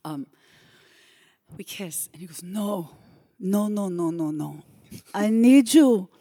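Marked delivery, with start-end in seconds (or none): 2.4-6.1 loud, higher, exaggerated Cuban accent; terrible Cuban accent. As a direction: shout it like a brash Cuban director. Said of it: "I am about to do a terrible Cuban accent".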